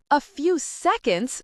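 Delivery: high, slow, loud squeak; upset dad squeaking like a canary. A narrator's reading. Mister Dunstable squeaks at the girls in high alarm. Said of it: "squeaked Mister Dunstable".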